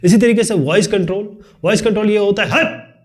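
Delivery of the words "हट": a sudden high yelled scold; sharp shout. Shown as a demonstration. Teacher demonstrating a scolding shout to the class. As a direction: snap it out like shooing someone away. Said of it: "sorry, मैंने आपने चिल्ला दिया".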